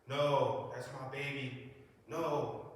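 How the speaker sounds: loud, broken protest; a mother refusing to believe it; mother's anguished cry. Retold or imitated. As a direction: cry out for your baby. Mother reacting at the ambulance.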